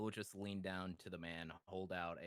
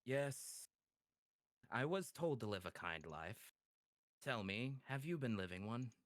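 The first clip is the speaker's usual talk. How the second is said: a hint of a measured, lilting devil; lightly voiced kindly Edicts; 4 semitones higher, 3 dB louder than usual. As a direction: lightly play a devil probing someone's conscience. Voices Edicts questioning the man.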